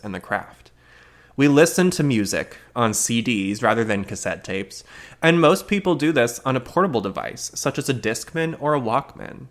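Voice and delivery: kooky retro newsreel announcer; old-fashioned news delivery. Acted. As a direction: read it like a quirky old-timey news bulletin. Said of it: "I don't know why I had to deliver it like that".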